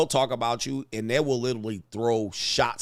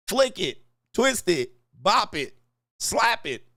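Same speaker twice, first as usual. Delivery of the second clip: higher, evenly spaced game callouts; Bop It toy commands; 6 semitones higher, slower than usual. Retold or imitated. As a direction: chant moves like the electronic toy. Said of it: "Did the whole Bop It".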